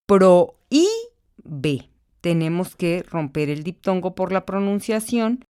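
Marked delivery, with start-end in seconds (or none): 0.1-1.9 Prohíbe said pro-Í-be, í stressed apart from o; broken diphthong. Shown as a demonstration. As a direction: stress the í in Prohíbe as its own syllable. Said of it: "ahí dice prohibí". (Prohíbe con hiato)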